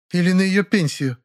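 mildly gloating neighbour. A narrator's reading. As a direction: savour the dig at her. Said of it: "злорадным голосом".

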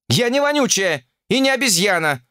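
outraged she'd be called an ape; righteous indignation. Acted. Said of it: "праведно возмутилась Ольга". (праведно возмущённо, выше)

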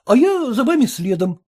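ordinary delivery

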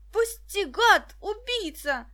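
high, loud cry for help; a captured boy screaming in panic; desperate cry. A narrator's reading. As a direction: scream at the attacker to let go. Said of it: "донёсся до них крик Дениса".

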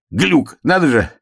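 высокий заячий голосок; удивись про себя тоненьким голосом; заяц сам себе. A narrator's reading. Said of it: "сказал сам себе". (заяц удивляется сам себе)

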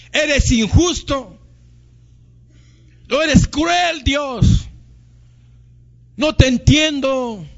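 mock anguished outcry at God, building to a shout; hammed-up reproach, rising to a cry of cruel; bitter complaint to God. Preacher acting a bitter believer accusing God, rising to a shout.

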